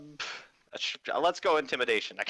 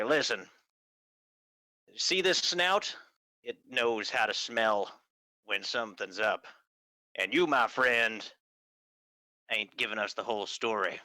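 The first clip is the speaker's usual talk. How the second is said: gruff detective fox. Acted. Detective confronts an evasive witness, lightly gruff. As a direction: press the witness with a touch of gruffness. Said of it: "two times more gruff".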